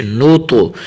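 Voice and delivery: نو تو with a thick T echoing at the end; heavy bounced ta. Shown as a demonstration. Teacher shows qalqala, نو تو with bounced T. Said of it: "طا کو تھوڑا سا کلکلا بھی کرنا ہے".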